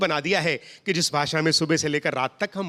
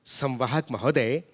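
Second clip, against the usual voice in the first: formal pure hindi. Retold or imitated. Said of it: "हमने कहा".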